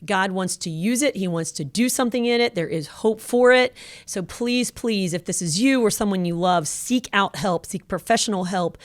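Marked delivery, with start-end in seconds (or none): none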